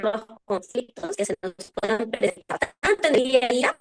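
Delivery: breaking up on a bad video call; glitchy, stuttering connection with echo; choppy audio with echo. Real, not acted. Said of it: "Se escucha entrecortado y con eco".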